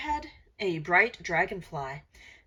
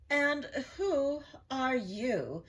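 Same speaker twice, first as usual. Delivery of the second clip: a witch's sharp demanding question; 6 semitones higher, slower than usual. A narrator's reading. A second witch looking down at the frog, demanding. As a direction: loom over him and demand it. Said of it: "she demanded".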